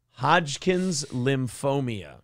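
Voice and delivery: slow, deliberate "lymphomia" with an added "ee"; mocking mispronunciation. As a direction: repeat "lymphomia" as lim-FOH-mee-uh, drawn out. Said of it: "so he can pronounce it lymphomia".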